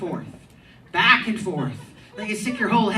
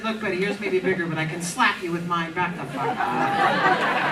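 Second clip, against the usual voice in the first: tough comeback; 5 semitones lower than usual. Retold or imitated. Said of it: "I said".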